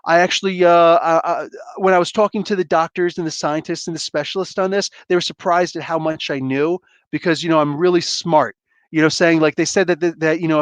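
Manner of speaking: a light, barely shifted Trump voice, boastful; imitating Trump. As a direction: toss off a mild Trump brag that speeds up at the end. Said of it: "I always do this 'cause Trump says, talks like this".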